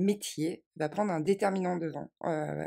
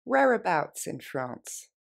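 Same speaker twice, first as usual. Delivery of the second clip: quicker everyday pace; faster, natural; slower than usual. Shown as a demonstration. Teacher modeling the natural version for learners. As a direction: say it like a native would. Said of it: "Plus rapidement, plus naturellement".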